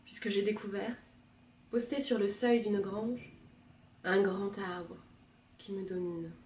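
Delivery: lyrical recitation, each phrase set apart; poem reading. Acted. Second reader taking up the poem, measured recitation. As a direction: recite with weight, easing down at phrase ends.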